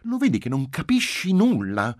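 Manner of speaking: put-on high, loud child's scolding; stern, high-pitched reproach; severe little girl. A narrator's reading. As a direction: tell Dad off sternly. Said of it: "ella disse severamente".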